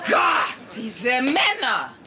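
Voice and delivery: slow, drawn-out cry of frustration; fed-up wife venting; exasperated outburst. Acted. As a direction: throw up your hands at men.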